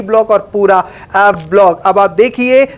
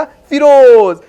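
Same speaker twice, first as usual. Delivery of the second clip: delicately; 3 semitones higher, 4 dB louder, much slower than usual. Shown as a demonstration. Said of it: "बड़ी नजाकत से बुलाता हूँ".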